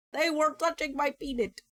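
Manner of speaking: high, giggly retelling; laughing. Real, not acted. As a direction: say it through a giggle. Repeating it while laughing.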